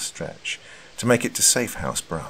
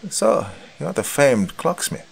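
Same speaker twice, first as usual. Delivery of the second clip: surprised; 9 semitones higher, slower than usual. Acted. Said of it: "a look of surprise painted across her face".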